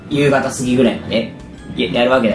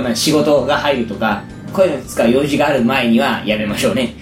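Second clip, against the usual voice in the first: hoarse voice. Real, not acted. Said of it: "聞いててわかると思いますけど".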